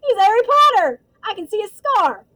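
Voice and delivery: very high-pitched excited calling; gleeful shouting. A narrator's reading. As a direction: shout the big news to your mate, thrilled. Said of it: "Stan shouted gleefully".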